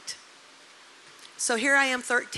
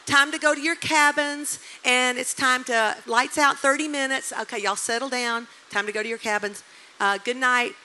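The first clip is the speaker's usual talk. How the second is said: loud, high announcer call easing down to everyday volume; acted-out calling to a crowd, fading; camp leader; 5 semitones higher, 6 dB louder than usual. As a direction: imitate a leader breaking up the crowd, big at first then settling. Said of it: "one of the leaders".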